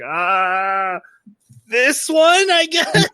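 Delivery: high, hesitant mock answer; unsure. Clerk put on the spot by manga fans, unsure. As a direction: squeak out a reluctant suggestion, pitch climbing.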